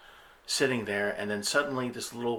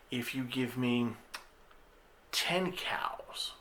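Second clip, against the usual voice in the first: breathy whisper, pitched high; whispered demand; 3 semitones higher, much slower than usual. Retold or imitated. The Lord whispering his price to the husband, whispered. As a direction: hiss the price like a sly lord.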